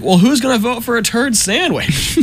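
high mock cartoon voice; cartoon Trump. The candidate answers the reporter in a high mock voice. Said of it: "And he's like".

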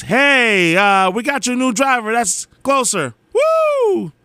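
high, excited announcement with a whoop; perky app notification. Acted. Phone app cheering about a new driver, perky. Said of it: "it says".

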